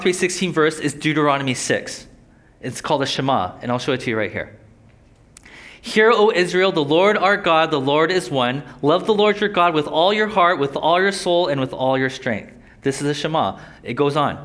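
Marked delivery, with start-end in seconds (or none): 5.8-12.5 solemn scripture recitation to the congregation; scripture reading. Acted. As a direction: proclaim it like a holy creed. Reads scripture aloud.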